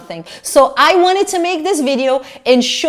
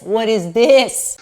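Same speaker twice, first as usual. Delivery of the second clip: laughing as the words come out; laughing disbelief; slower than usual. Real, not acted. Trying the dress on for viewers, laughing in disbelief. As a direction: break into a laugh on the question.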